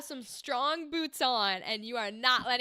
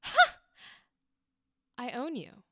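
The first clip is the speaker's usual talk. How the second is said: losing it. Shown as a demonstration. Coach showing a changed second take, losing it. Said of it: "Like, lose it".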